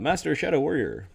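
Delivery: light, effeminate voice through laughter. A game character addresses master shadow warrior: laughing, slightly effeminate voice. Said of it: "laughing with his slightly effeminate voice".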